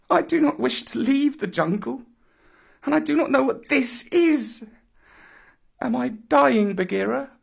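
put-on high, distressed boy's voice; tearful bewilderment. A narrator's reading. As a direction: plead with an older friend, high and upset. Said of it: "caught his breath and sobbed".

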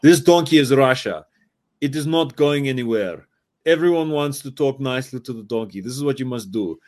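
put-on a light Russian accent, solemn like a campaign ad. A Russian politician's campaign ad about the donkey, in a mock Russian accent. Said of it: "but I'll do it in an accent".

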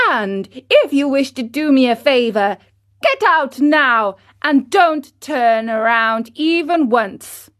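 put-on high, loud cheeky boy; bossy puppet boy. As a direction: stake your claim like a brat. Pinocchio orders cricket out.

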